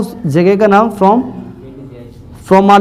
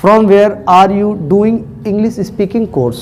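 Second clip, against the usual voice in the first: "From where are you doing English speaking course?" dictated slowly; slow dictation; much slower than usual. Shown as a demonstration. Teacher dictating the question slowly to students. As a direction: spell it out slowly for the class. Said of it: "कैसे करते हैं?".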